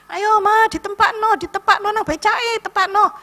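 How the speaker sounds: high, loud coaxing call; urging helper. Retold or imitated. Helper loudly urges grandma into the becak, high coaxing call.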